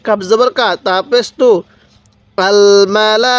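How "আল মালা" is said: আল মালা recited slowly with the syllables stretched; drawn-out recitation. Shown as a demonstration. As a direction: chant আল মালা like a tajweed demo. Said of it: "কিভাবে শিখব?".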